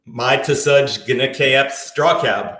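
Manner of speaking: slow reversed English; backwards speech. Shown as a demonstration. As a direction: recite it backwards, word by word. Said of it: "I'm just speaking backwards".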